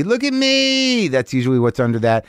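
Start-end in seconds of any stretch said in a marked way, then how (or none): 0.0-1.1 high slow whiny look at me; mock attention seeker. Comic showing what the woo means, high and slow. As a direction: plead for attention, drawn out. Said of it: "that can be".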